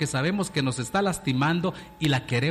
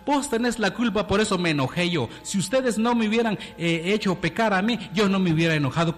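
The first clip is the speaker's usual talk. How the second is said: higher, fast, mock-angry blaming; retold angry blame; 3 semitones higher, faster than usual. Someone blaming others for their own anger, mock-heated and fast. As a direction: rattle off the excuse like someone who won't own it. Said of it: "Como dijo aquella persona".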